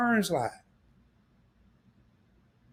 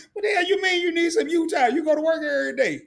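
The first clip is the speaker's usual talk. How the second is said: higher, laughing in disbelief; 8 semitones higher, faster than usual. Real, not acted. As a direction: scoff at it while laughing. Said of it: "I'm laughing".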